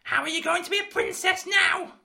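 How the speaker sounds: wicked stepmother. Acted. Mother scolds Meg.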